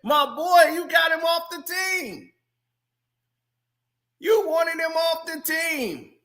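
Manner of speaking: dap him up, then needle him; hammed-up buddy teasing teammate; imitating LeBron. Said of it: "LeBron is always cool, dapping him up".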